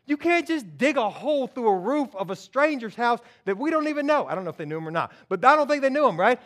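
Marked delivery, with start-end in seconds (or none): 0.0-4.3 incredulous protest. Acted. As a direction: object with raised pitch and energy. First friend objects to the plan.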